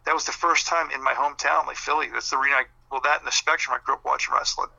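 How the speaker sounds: raspy, fading hoarse voice; talking through a hoarse throat; hoarse, losing voice. Real, not acted. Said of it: "I'm losing my voice".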